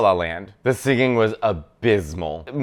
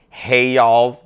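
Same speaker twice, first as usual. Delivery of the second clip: a light Southern American twang, a bit louder; mock American accent; 5 dB louder than usual. Mocking Nicole Kidman's American accent attempt, light twang. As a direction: parody a weak American accent. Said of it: "the most American accent she can do was".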